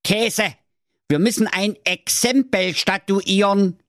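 high, put-on know-it-all old man; high cranky correction; correcting Wilhelm. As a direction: set the record straight, impatiently. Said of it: "half der Wilhelm dem Jakob auf die Sprünge".

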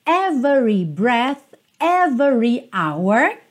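"every" stressed, all three syllables ev-e-ree; teacher models "every" stressed, each syllable sounded; with emphasis. Shown as a demonstration. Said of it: "com ênfase".

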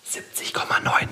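breathy hushed number; whispering. Real, not acted. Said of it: "Scheiße, das wusste ich nicht".

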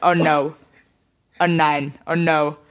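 mock American husband groaning; American accent in German. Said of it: "mit seinem amerikanischen Akzent als".

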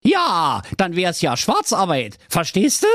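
high, daft Berlin prince voice; silly prince. Acted. Prince diagnoses the dragon's heartburn, high daft voice. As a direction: play the dopey prince, high.

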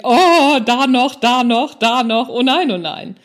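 exasperated at spotting one mistake after another; retold dismay. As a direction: cringe loudly over your own old slips. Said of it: "Wenn ich mir heute die Texte angucke, denke ich".

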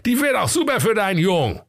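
excited squeaky miller; high miller voice. Acted. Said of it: "und rief".

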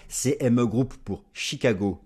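slow, careful English accent on "Chicago Mercantile Exchange". Shown as a demonstration. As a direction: show off a worked-on English accent. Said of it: "notez l'accent, travaillé".

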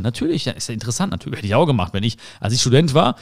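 ordinary talk, nothing marked

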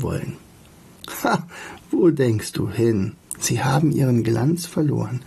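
expressive reading with lively dialogue; story narration. A narrator's reading. Bumblebee urges Alltag to return home, story narration. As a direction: read the tale, pausing between phrases.

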